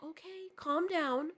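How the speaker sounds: retold placating quote, stretched slowly; mock placating. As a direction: imitate someone condescendingly placating, drawn out. Retold husband telling her to calm down.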